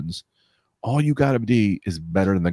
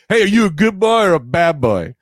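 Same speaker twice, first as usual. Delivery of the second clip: higher, playful hailing voice; podcast host bit; 6 semitones higher than usual. Acted. Host quizzing listeners on a pitched podcast, playful high voice. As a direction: ask it like a silly show catchphrase. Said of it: "We could be like".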